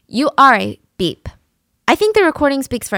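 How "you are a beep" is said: louder snapped insult; mock insult. The girlfriend insulting Christian, louder. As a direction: spit the insult out. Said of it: "And she says".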